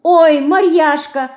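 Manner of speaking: understated disappointed whine; regretful. A narrator's reading. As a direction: lament a spoiled plan, lightly. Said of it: "с сожалением говорит мышка".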